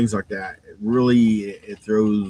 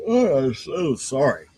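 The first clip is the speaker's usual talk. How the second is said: yawning; 5 semitones higher, slower than usual. Real, not acted. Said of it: "makes me yawn".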